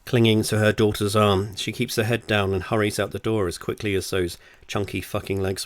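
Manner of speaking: steady, deliberate audiobook read; story narration. Acted. Author reads their novel to listeners, story narration. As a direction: tell it as a wry storyteller.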